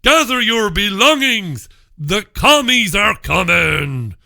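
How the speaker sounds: mock panic shouting a warning. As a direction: cry out like a mock town crier. Mock panic alarm cry.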